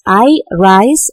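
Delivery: "I rise" with equal weight on both words; two firm beats, "I" then "rise"; both words stressed. Shown as a demonstration. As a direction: give "I" and "rise" a beat each. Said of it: "So in both".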